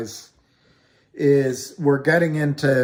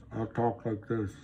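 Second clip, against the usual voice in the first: softer, a changed voice as if talking through lipstick; 3 semitones lower, 8 dB quieter than usual. Shown as a demonstration. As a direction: talk through painted lips, softer. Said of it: "so I'll talk like this".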